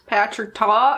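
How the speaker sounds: slight southern drawl on the name; southern accent. Real, not acted. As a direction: slip lightly into a southern accent. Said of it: "why I got a southern accent".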